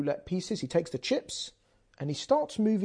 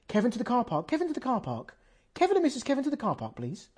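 high, mock PA announcer; tannoy announcement; 6 semitones higher, faster than usual. Casino calling Kevin to the car park, mock tannoy. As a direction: announce it over the casino speakers. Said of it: "there's a Tannoy announcement".

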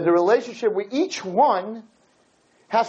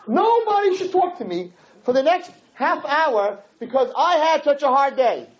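irritated husband; 4 semitones higher than usual. Retold or imitated. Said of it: "he says".

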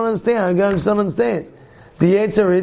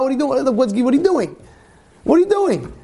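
ever more baffled; mock disbelief; 5 semitones higher than usual. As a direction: builds to a high incredulous cry. Mocking the beer drinker.

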